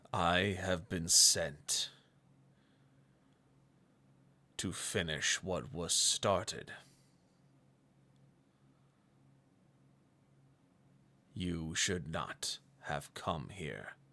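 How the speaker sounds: deep, artificial-sounding, almost man-made voice. The game master voices a monster looking down at the party, in a deep, almost man-made voice. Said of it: "In a deep, almost man made voice".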